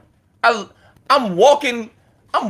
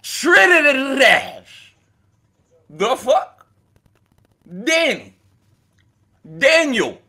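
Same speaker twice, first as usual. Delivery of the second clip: Trinidad shouted out slowly, pitched up; J Murder voice, shouted; 3 semitones higher, slower than usual. Retold or imitated. Mocking Danny again, a shouted J Murder impression. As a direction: bellow it slow like J Murder. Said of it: "in my best J Murder voice".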